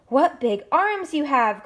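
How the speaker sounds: Big Pug marvelling at the monster's arms; excited cry. Acted. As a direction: cry out in wonder. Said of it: "cried Big Pug".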